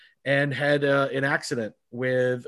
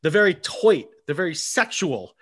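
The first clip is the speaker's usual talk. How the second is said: announcer hype; 3 semitones higher than usual. Acted. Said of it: "hyped-up host introduction".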